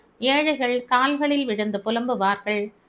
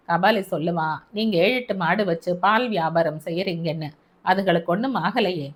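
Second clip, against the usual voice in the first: lower, steady man's voice; Albert, calm officer; 3 semitones lower than usual. Acted. Albert comforting the grieving mother, low and steady. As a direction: soothe her in a low, even tone.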